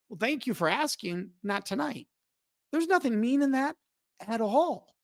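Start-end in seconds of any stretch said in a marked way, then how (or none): 0.1-2.1 softer, gentle "thank you for asking, not tonight"; friendly soft no; polite refusal. Shown as a demonstration. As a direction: decline kindly and quietly. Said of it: "But if you're like".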